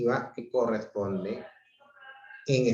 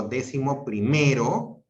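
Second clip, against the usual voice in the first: "primero" stressed on its second-to-last syllable, ME. Shown as a demonstration. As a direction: lean on the ME of "primero", ending on a rise. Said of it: "la mayor fuerza de voz es grave".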